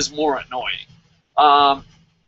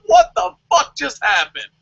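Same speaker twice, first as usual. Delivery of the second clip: high, baffled mock outrage; imitating Samoa Joe; 8 semitones higher than usual. As Samoa Joe complaining about the bye, high and baffled. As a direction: sound stunned and cheated. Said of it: "you're just like".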